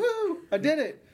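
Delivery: high, loud victory whoop; excited cheer. Real, not acted. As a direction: celebrate like you won. Cheering after saying name right.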